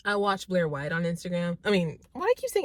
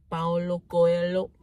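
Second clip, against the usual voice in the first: the name in a put-on Spanish accent; Spanish accent on Paulo Coelho; 4 dB louder, slower than usual. Shown as a demonstration. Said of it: "I'm trying to sound Spanish and use my Spanish accent".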